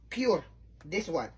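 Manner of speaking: usual speaking voice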